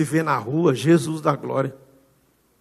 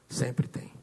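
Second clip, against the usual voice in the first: whispered echo; 7 dB quieter than usual. Real, not acted. Repeated refrain, breathed.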